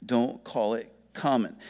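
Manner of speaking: slow pronouncement with long pauses; voice of God correcting. Acted. The voice telling Peter a second time, slow and deliberate. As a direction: spell out the command slowly, letting each part land. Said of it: "here comes this voice a second time".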